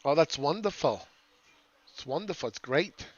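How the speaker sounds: mock a chatty little old lady; old lady accent like a West Palm Beach retiree. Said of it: "That's an old lady accent".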